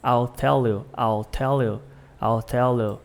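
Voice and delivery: "I'll tell you" with L made behind the teeth; touch tongue to teeth on each L of "I'll tell you"; "I'll" said as au, linked to tell; tongue-tip L. Shown as a demonstration. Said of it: "a língua atrás do dente".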